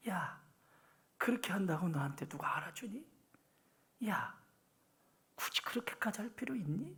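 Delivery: quiet breathy whisper.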